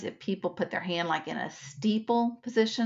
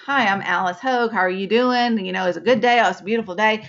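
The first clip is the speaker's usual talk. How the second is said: bright, eager, slightly louder hello; bubbly greeting; 2 semitones higher, 6 dB louder, faster than usual. Shown as a demonstration. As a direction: gush like an overeager extrovert. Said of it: "you're all bubbly".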